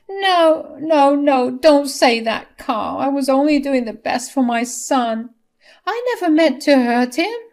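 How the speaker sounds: high, loud wailing protest; distraught, tearful denial; desperate plea. A narrator's reading. Wife pleads after husband's rebuke.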